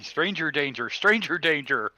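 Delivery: understated pretend scream; mild mock scream. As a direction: call out in mock alarm, without a full yell. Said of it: "screaming mentally for Fitz".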